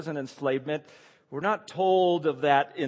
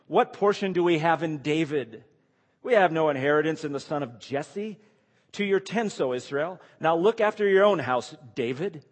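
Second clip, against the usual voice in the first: raised, emphatic crowd's reply, read aloud; mild defiant declaration; 3 semitones higher, 5 dB louder than usual. Acted. Israel answers the king who would not listen, mildly defiant. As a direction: declaim the people's rejection with some force.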